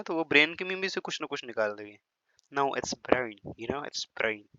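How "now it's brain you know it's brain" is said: mock English teacher. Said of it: "ब्रेन भी pronounce किया ना".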